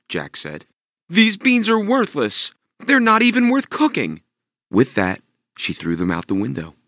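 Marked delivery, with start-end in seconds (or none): 1.1-4.2 scornful mother. Acted. Mother scolding Jack over the worthless beans.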